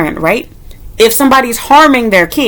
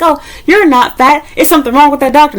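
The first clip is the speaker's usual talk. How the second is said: mocking denial; 6 semitones higher than usual.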